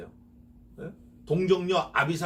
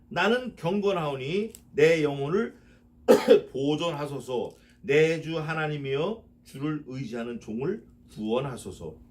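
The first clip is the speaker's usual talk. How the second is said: slow, solemn verse reading; measured scripture recitation; 3 dB louder than usual. Acted. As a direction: read the psalm line with reverence. Reads psalm verse aloud.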